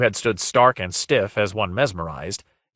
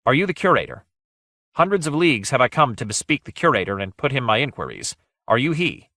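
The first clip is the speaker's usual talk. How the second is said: higher, pressing questioning; lightly voiced urgent hero; 4 semitones higher, faster than usual. Guile interrupts to ask for the curator, urgent questioning. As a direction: cut in and press for an answer.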